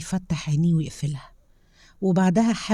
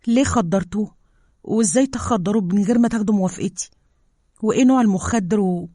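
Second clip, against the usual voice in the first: higher, louder rapid-fire indignant questions; angry questioning; 4 semitones higher, 4 dB louder than usual. Acted. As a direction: confront them, outraged. She confronts the scientists. (استجواب غاضب)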